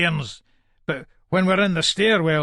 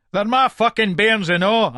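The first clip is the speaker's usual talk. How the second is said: raised, angry retort; indignant protest; 5 semitones higher, 4 dB louder than usual. Acted. Father answers police about his bairns, indignant. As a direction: push back hotly, pitch up.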